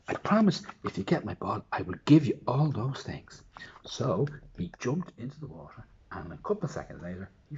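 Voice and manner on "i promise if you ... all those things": a touch higher and louder, steadier; princess promising. Acted. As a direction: promise it again more calmly. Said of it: "he said".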